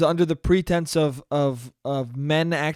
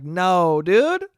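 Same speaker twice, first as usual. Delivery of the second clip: incredulous no; 4 dB louder than usual. Retold or imitated. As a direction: shoot it down, half laughing at it. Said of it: "I'm like".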